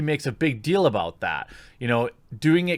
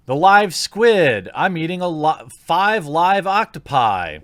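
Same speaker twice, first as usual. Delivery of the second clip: mock clickbait title; 3 semitones higher, 3 dB louder than usual. Mocking her video titles.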